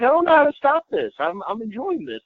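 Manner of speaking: giddy helplessness. Retold or imitated. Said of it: "I was like".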